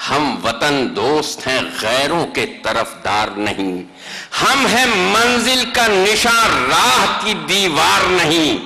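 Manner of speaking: measured mushaira recitation; stately nazm recitation. Acted. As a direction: declaim each line with weight. (مشاعرے کی نظم خوانی)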